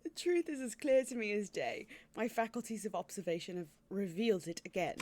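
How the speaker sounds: lightly acted, pompous British accent. Detective announcing his deduction, mild mock British accent. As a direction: declaim it in a put-on British accent. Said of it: "the British accent".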